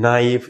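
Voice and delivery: নাইফ said slowly as "naif", no k; careful teacher model, silent k. Shown as a demonstration. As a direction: model নাইফ starting on the n sound. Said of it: "এটাকে বলি".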